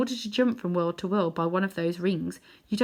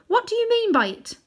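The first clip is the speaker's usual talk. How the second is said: higher, louder indignant question; indignant girl; 6 dB louder than usual. A narrator's reading. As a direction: demand an answer, affronted. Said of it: "said Polly".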